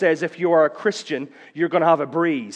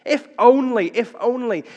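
grieving lament; 9 semitones higher, 5 dB louder than usual. Acted. Mary weeping at Jesus' feet, high grieving plea. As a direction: let it break into grief. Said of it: "weeps and sobs".

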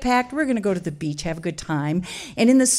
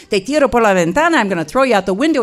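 louder, fast threat; threatening father; 6 dB louder, much faster than usual. Retold or imitated. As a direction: rattle off a loud threat.

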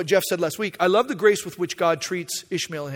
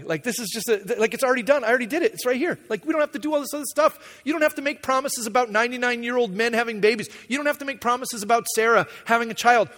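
eager Abraham pitch; 5 semitones higher than usual. Acted. Abraham keeps selling his plan.

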